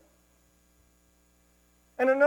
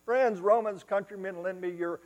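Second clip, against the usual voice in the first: mock Shakespeare orator; 6 semitones higher, 5 dB louder than usual. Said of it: "no, that's a different story".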